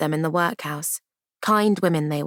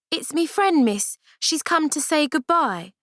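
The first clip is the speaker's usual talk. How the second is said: put-on young girl voice; 10 semitones higher than usual. Amy answers official, higher.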